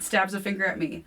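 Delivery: ordinary delivery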